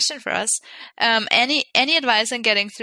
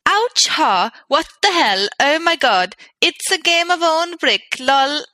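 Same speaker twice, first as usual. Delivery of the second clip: put-on Swedish accent; slower than usual. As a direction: read it in a mock Swedish accent. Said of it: "I'll go back to my native Swedish".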